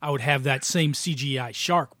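ordinary delivery

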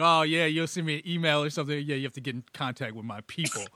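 fast, dismissive big-shot voice; mock celebrity brush-off. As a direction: brush off like a star. Mocking big-star brush-off.

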